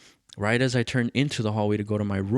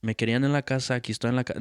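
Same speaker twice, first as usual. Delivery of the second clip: lightly mimicked sassy reply; same tone as dad; 3 semitones higher, faster than usual. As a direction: answer back in the tone he's being given. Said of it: "the same tone".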